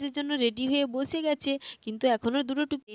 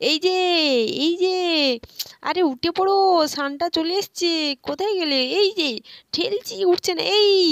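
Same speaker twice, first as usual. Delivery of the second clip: calling out; 4 semitones higher, 4 dB louder than usual. Acted. Waking sleeping father loudly.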